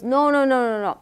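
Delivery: a marketing man's insistent Costa Rican accent, lightly mimicked; imitated Costa Rican accent. Costa Rican marketer correcting the founders, insistent Costa Rican accent. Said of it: "he says in his accent".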